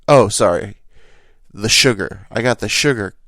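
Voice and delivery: mock yell. Mock reply in the quarrel.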